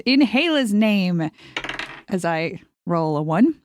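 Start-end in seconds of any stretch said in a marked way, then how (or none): 0.0-1.3 battle cry. Acted.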